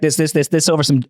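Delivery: light mocking rapper impression; a hint of a jazz-rap parody; a rapper's alien voice. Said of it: "do the alien voice".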